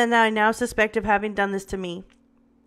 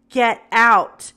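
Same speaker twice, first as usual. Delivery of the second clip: triumphant; 7 dB louder than usual. A narrator's reading. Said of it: "so happy as when I said those words".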